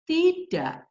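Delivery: slow, firm "no"; firm refusal. Shown as a demonstration. Teacher showing parents a no that stands whatever the child says, firm. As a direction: hold the refusal firmly, without anger. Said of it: "Saya ngomong tidak seperti itu pun".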